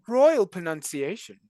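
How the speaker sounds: posh English RP, slow; careful received pronunciation; RP accent. Acted. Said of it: "R P?".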